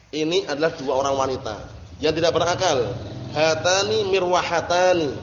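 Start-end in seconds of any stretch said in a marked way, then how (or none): 3.4-5.1 slow, drawn-out hatani mirwahatani; slow model reading. Shown as a demonstration. Teacher reading hatani mirwahatani slowly to the class, drawn out. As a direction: stretch out hatani mirwahatani for students. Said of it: "teacher models the example".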